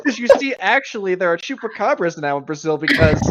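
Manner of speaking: mock know-it-all rambling; imitating a rambling friend. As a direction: launch into a teasing imitation of a long-winded friend. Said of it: "it's an impression of me".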